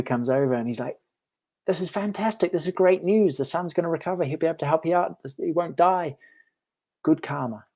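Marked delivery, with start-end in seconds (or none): 1.7-7.6 excited neighbor. Retold or imitated. Neighbor cheers the lucky turn.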